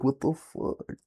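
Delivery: high rising what the fuck; shocked. Retold or imitated. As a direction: react in disbelief. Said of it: "I'm like".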